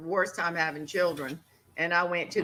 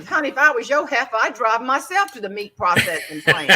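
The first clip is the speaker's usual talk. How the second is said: fast, louder sassy comeback; snapped back; 3 semitones higher, 4 dB louder than usual. Retold or imitated. Wife to rude cattle buyer, quick sassy retort. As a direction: fire the comeback right back at him. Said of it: "I snapped right back".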